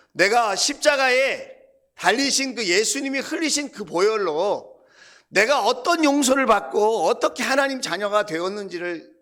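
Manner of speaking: re-enacted fervent prayer of regret; repentant prayer. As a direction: confess it with rising fervor. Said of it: "그럼 제가 회개하죠".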